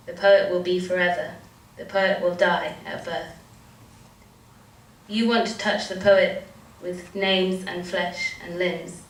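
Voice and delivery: measured poetry reading, line by line; spoken-word poem with even, repeated cadence; poem recitation. Acted. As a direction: read it as a litany, pausing after lines. Reads a poem aloud.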